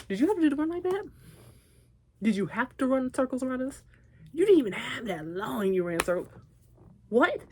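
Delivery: pitched high, gushing over the singer's run; excited gushing. Real, not acted. Fan gushing at a singer's vocal run, high and excited. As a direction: squeal in disbelief at the vocals. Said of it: "let me calm down".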